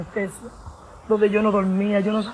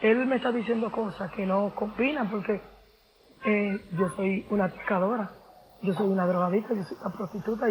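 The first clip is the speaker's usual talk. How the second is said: oración en voz baja; 3 semitones lower, 9 dB quieter than usual. Retold or imitated.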